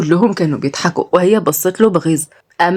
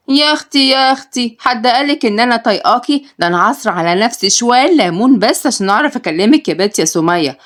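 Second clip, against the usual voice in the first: sharp sister; 2 semitones higher than usual. Acted. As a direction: needle her sister. Sister Narges on phone.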